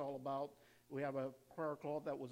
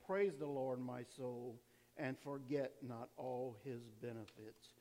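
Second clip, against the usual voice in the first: scripture reading; 3 semitones lower, slower than usual. Acted. Reads scripture aloud slowly.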